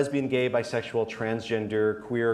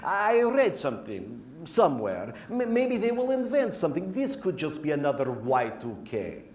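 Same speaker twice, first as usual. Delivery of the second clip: denial voice. Acted. Denial voice of climate skeptic.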